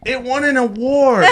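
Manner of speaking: mom's line, high and broken by laughter; laughing through mom's line. Retold or imitated. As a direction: quote mom while cracking up. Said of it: "And she's like".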